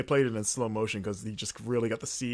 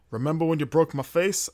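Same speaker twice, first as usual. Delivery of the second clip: attempted female Irish voice, slightly raised; bad Irish accent; 3 semitones higher than usual. Wrestler confronts her rival backstage, poorly faked Irish accent. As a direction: have a poor go at an Irish accent. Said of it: "I can't do a Irish accent".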